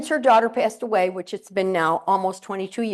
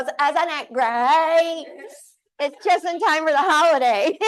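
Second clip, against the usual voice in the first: gushing delight; 6 semitones higher, 5 dB louder, slower than usual. Retold or imitated. Happy student loves the snow.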